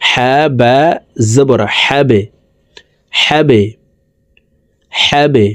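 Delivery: "হ্যাবে" with the final b bounced downward; downward push on b. Shown as a demonstration. Teacher drilling qalqalah for viewers, pushed b. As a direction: give "হ্যাবে" a small echoing release on the b. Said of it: "নিচের দিকে ধাবিত করে ধাক্কা দিয়ে উচ্চারণ করব".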